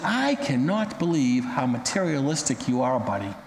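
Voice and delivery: understated disgust, dropping low on the last word; low-key disgusted scolding of a ranting man. Acted. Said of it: "looked at him in complete disgust".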